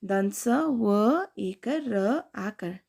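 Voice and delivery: slowly sounding out each letter; slow spelling. Shown as a demonstration. Teacher sounding out letters for children. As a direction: spell it out for the class. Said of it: "अब दूसरा है".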